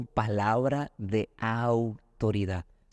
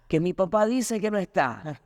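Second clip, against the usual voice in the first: put-on innocent little girl; 8 semitones higher than usual. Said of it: "Y el papá".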